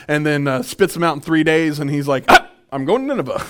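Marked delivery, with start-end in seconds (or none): 2.3-3.5 resigned Jonah. Retold or imitated. Jonah voiced after the fish.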